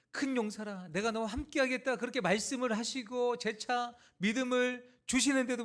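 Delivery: high, impassioned sermon delivery; forceful preaching. Acted. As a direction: preach it with rising conviction.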